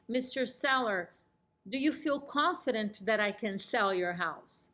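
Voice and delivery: calm, assured question with a downswing; confident and warm. Shown as a demonstration. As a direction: ask it warmly, sure of yourself. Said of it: "You see how I'm nodding yes and I'm smiling?".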